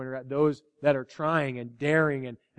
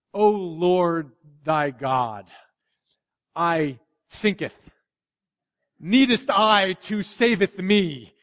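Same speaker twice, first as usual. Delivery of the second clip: slow, pompous King James mock prayer; drawn-out fake-holy thee-and-thou voice; mock archaic prayer; 4 dB louder, much slower than usual. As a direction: ham up a stuffy old-fashioned prayer. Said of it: "No, we don't talk like that".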